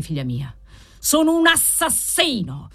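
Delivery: drops away, then climbs to a high cry; anguished shriek. A narrator's reading. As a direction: wail the confession in a high, strained old man's voice. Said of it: "strillò il vecchio".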